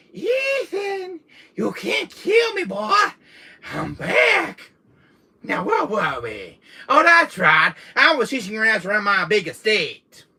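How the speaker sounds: put-on Jack's Louisiana accent. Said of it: "this Louisiana accent".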